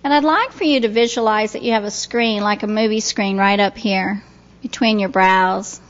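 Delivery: calm, unhurried guiding voice with long pauses; guided meditation. Real, not acted. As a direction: ease listeners gently into relaxation. Leads relaxation and visualization.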